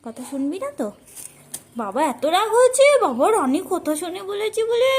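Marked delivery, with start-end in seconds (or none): 1.8-4.9 high teasing pet talk. Real, not acted. Teasing bird's jealousy.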